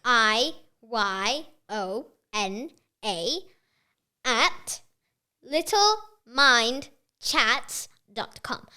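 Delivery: slow, spaced-out dictation; super slow. Real, not acted. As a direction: spell it out slowly for note-taking. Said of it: "I'll say it super slow".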